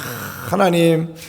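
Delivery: humble thankful confession; grateful prayer. Shown as a demonstration. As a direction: pray it as if walking tired to dawn service. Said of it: "믿음의 고백을 한번 드려보십시오".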